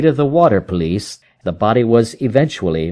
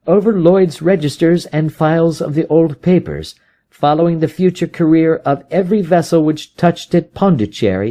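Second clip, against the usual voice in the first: higher, brisk detective voice; Holmes, explaining his search; 6 semitones higher than usual. Acted. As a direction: lay out the trail.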